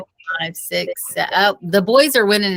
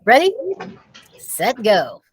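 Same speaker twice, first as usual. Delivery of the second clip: brisk start call; 3 semitones higher than usual. Acted. Principal launching Dave's plan, a brisk starting call. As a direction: fire off the starting signal.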